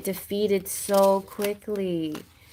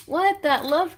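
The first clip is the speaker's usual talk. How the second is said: sharp gasp and high loud exclamation; gasp, then blurt it out high; excited disbelief; 10 semitones higher, 4 dB louder, slower than usual. Real, not acted. Reader seeing the love cup card, astonished.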